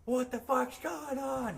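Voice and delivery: loud, slow, baffled shout; confused drummer. Pretend. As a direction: yell out, confused, to nobody. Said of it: "just like".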